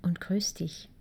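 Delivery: ASMR whisper. Acted. Coach talking to new parents about crying, whispered. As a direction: whisper it close, as if a baby sleeps nearby.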